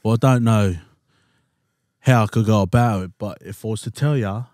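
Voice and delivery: put-on English accent, projected; loud opening in a mock English accent; Pommy accent. Shown as a demonstration. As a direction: do your best Pommy, performing for mates. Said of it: "Give us your best Pommy accent".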